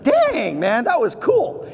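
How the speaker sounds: high DANG, then a slowed, amazed cool; impressed surprise. Retold or imitated. Imagined friend reacting to the reply, amazed. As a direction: play the stunned friend. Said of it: "they're gonna be like".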